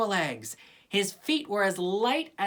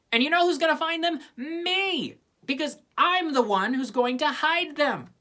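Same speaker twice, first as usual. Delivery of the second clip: higher, louder and quick; gleeful boast; 9 semitones higher, 4 dB louder than usual. A narrator's reading. Lucy boasting she'll find every egg, fast and loud. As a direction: crow about your own cleverness.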